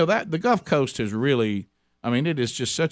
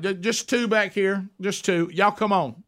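cheery hostess; 6 semitones higher than usual. Retold or imitated. Hostess voice waving them in.

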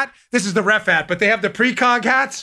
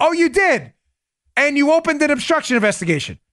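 mock surprise; 3 semitones higher than usual. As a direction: act astonished at the witness's answer. Acted cross-examiner feigning surprise at answer.

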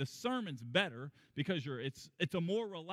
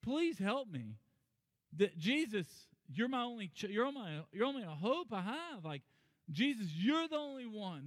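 higher, pleading cry for help; 6 semitones higher than usual. Retold or imitated. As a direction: beg him as the only hope. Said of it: "is basically saying".

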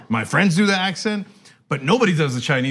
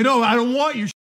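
higher, rough stab at Boston; rough Boston accent; 8 semitones higher than usual. Retold or imitated. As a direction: try a loose Boston accent. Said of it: "It's kind of a Boston accent".

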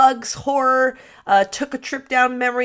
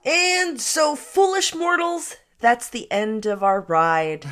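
ghost host; slower than usual. Pretend. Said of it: "Haunted Mansion ghost host voice".

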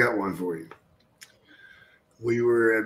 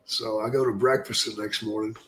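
usual speaking voice

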